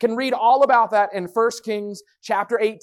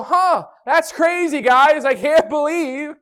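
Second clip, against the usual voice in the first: slow, higher mock amazement; taunting; 5 semitones higher, slower than usual. Elijah taunting the priests of Baal, mock disbelief. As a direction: fake surprise to needle the priests. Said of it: "he starts to taunt them".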